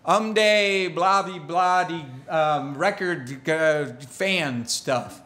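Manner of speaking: made-up gibberish, halting and slowing; fake foreign language. Shown as a demonstration. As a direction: babble nonsense syllables as a language. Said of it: "if I do it, I'm gonna go like".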